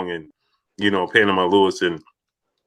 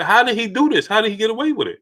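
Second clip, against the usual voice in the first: retold disbelief; 10 semitones higher, faster than usual. Wife's shocked reaction retold.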